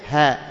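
"ها" as a breath in place of the glottal stop; h-like hamza. Shown as a demonstration. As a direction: ease the hamza into ها. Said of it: "شبيهة بالهاء". ("ها" شبيهة بالهاء)

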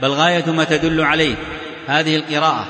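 steady, even book-reading voice; reading aloud. Real, not acted. Teacher reading a legal text to students, steady reading-aloud voice. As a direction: read the passage straight through in an even tone.

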